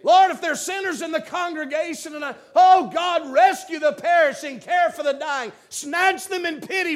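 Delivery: loud, high shouted prayer; fervent plea. Real, not acted. Preacher praying over sinners in the congregation, shouting. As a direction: call out to God for the lost.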